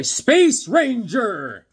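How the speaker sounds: loud, drawn-out hero name; slow, showy fanfare delivery; hero announcement. Pretend. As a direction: announce the hero like a show opener. Heroic announcement of favorite character.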